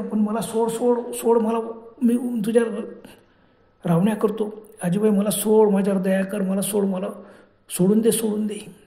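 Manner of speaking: acted, urgent begging to be released; mild desperate plea; pleading. Child begs witch to let go.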